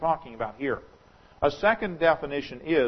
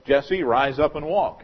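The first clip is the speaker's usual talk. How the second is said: commanding, slow, louder call; firm healing command; 5 dB louder, slower than usual. Shown as a demonstration. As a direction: pastor commands the paralyzed man, loud and slow. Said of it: "he's not gonna be able to do it".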